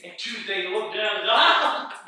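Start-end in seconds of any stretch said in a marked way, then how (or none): 1.3-2.0 loud, raised "Ah!"; acted yelp of sudden alarm; startled cry. Preacher acts out the doubter looking down, startled cry. Looks down while walking, panics.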